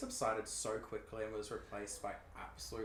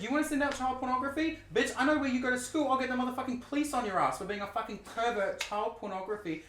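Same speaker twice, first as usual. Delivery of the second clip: loud, high, raging yell at him; furious shout; 12 semitones higher, 7 dB louder, faster than usual. Retold or imitated. Threatening the blackmailer with police in a loud, high yell. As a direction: scream the threat back, fast and fierce. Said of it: "I said".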